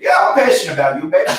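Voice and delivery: hammed-up New Yorker declaring love; New York accent. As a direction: push the New York accent, playfully passionate. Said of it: "talk to you in New York".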